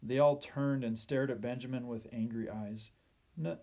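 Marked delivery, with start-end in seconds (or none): 3.4-3.6 slow, higher, hesitant stammer. A narrator's reading. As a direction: stumble nervously over the first sound. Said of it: "he stammered".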